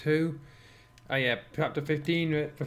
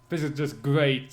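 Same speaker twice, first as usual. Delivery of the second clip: sarcastic. Acted. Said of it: "nodding in raw sarcasm".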